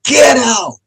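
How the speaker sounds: high-pitched shouted command, imitating the voice; ghostly man's shout. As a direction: shout it out as the menacing spirit. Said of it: "that man's voice says".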